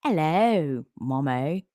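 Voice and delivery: meowed greeting with a rising last word; talking-cat meow. Retold or imitated. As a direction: imitate a cat speaking English. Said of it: "He speaks English".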